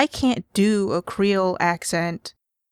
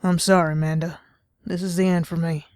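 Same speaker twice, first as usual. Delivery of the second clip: mock-dramatic dying words in a light Southern accent. Dad fakes dying to daughter Amanda, light Southern accent. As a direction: ham up a deathbed farewell, lightly Southern. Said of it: "me doing a regular Southern accent".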